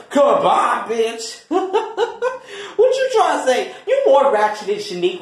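high laughing retort; laughing while talking. Acted. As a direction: laugh through the words.

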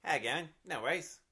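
lightly attempted Australian accent; casual demo of an Australian accent. Shown as a demonstration. Co-host shows what Australians sound like, light Australian accent. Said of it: "what does that sound like".

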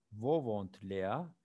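whispered German question; slow whispered question. Shown as a demonstration. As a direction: breathe the question without voice. Teacher reads German question.

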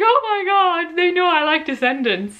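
high-pitched gush, easing down from "Oh my God"; excited retelling. Retold or imitated. Telling Matthew they know she likes Descendants, excitedly.

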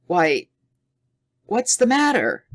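high startled question; sudden alarm in the voice; surprised. A narrator's reading. Tommy surprised.

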